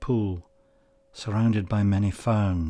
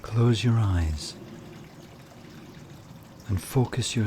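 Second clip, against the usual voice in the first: calm meditation guide with long pauses between phrases; guided meditation; 6 dB quieter than usual. Acted. Meditation leader has listeners picture flowing water, calm guided delivery.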